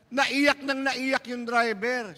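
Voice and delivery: high, slow, whiny narration; mock weeping. A narrator's reading. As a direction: draw it out like a blubbering man. (kunwaring pag-iyak, mataas at mabagal)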